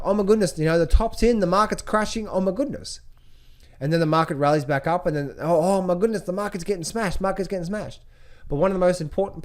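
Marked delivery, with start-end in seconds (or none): 0.0-3.0 higher-pitched, mildly panicked imitation; mock worried trader. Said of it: "they sort of get worried". 5.4-8.0 higher-pitched, lightly hammed-up worry; mock worried trader. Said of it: "they sort of get worried".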